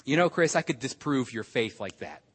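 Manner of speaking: low, quiet matter-of-fact challenge; retold friend's challenge. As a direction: retell a friend's understated boast, low and soft. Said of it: "He said to me".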